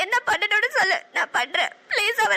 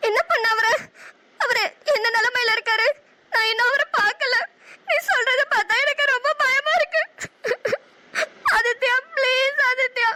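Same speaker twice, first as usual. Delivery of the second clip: frightened crying; 3 semitones higher than usual. Acted. Fears for lover, crying.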